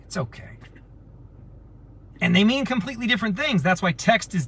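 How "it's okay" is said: much softer, gentle "It's okay"; soft sincere okay. Shown as a demonstration. Reassuring a friend by voice message, soft and gentle. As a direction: say "It's okay" softly, letting it fall kindly. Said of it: "Or you could be saying".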